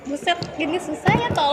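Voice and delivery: straining to open a bottle; strained, struggling with a tight cap; opening a stuck jar. Real, not acted. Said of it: "saya nggak bisa buka botol".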